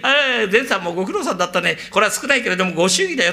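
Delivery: put-on young master tipping. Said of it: "ってんで".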